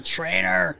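half-voiced retold holler; mild mock yell. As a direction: imitate a demanding call at normal volume. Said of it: "The one night he's screaming".

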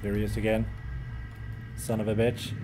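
low hushed curse; whispering. Real, not acted. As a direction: whisper so he won't hear. Whispers seeing monster.

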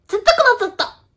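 high, all-out comedian shout; full-force gag with total commitment; shameless gag line. Shown as a demonstration. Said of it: "勢いでやんないといけないことなの".

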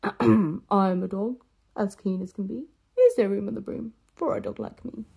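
a friendly dog asking politely. Acted. Dog asks the witch for a ride, lightly voiced.

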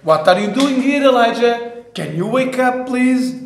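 a teasing wake-up call from God. Pretend. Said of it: "He's, he just say".

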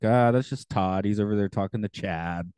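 lightly sarcastic dismissive quip; offhand mock-sarcastic aside; mock sarcasm. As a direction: toss it off with a touch of sarcasm. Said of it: "I guess in modern sarcasm".

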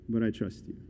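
very soft, low prayer; low, subdued pledge to God; quiet trust. Acted. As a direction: drop to a hushed, intimate vow. Acted prayer turns to trust.

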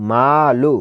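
মা held long, লু kept short; one-alif elongation. Shown as a demonstration. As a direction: stretch the vowel of মা before a short লু. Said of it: "এক আলিফ টানতে হবে".

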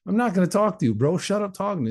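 high, mock-angry brush-off; irritated refusal. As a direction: shut the pest down, reenacted. Retold angry refusal to neighbour.

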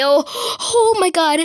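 panicked exclamation. Real, not acted.

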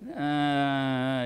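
long, soft, helpless "uh"; wordless defeated drone. Retold or imitated. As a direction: groan as if words have failed. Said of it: "you lose the ability to talk".

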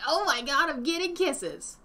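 hammed-up delight; over-the-moon excitement. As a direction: gush as if thrilled to bits. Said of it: "I'm over the moon in excitement".

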